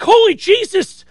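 shocked exclamation. Retold or imitated. Shocked by Jeremy's warning.

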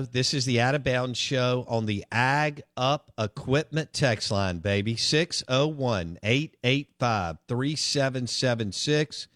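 slow, drawn-out radio plug. Acted. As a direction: spell out the number slowly like a DJ. Reads the text-line plug.

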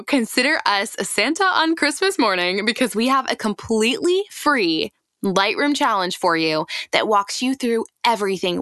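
upbeat promo read. Acted. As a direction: sell it like a radio ad. Ad read for Lightroom challenge.

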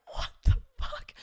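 slow, whispered disbelief; shocked whisper. Retold or imitated. Bartender looks at the two women aghast, shocked whisper. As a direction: whisper it slowly, as if stunned.

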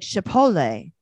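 Chipotle as "shi-pol-LAY"; pronuncia storpiata, imitata. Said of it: "she's trying to say Chipotle".

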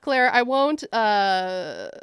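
laughing loudly at own joke; breaking into laughter mid-line. Real, not acted. Laughing to her cohost about doing a toothless accent.

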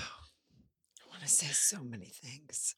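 choked-up whisper; barely holding back tears; crying on the phone. Real, not acted. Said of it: "Are you crying?".

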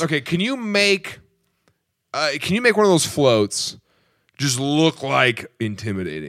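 halting mock Australian accent; attempted Australian accent. British ally asking Americans for intimidating floats, mock Australian accent. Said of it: "I'm pretty good Australian accent".

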